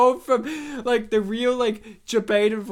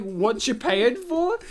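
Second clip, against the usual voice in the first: Italian New Yorker; 3 semitones higher, slower than usual. Retold or imitated. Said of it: "It sounds like when you say".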